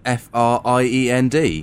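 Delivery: letter by letter; spelling it out. Shown as a demonstration. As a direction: spell each letter out clearly. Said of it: "We're doing a little spelling bee".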